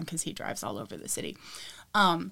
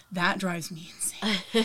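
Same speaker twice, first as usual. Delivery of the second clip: exasperated whisper; slower than usual. Real, not acted. Frustration aside.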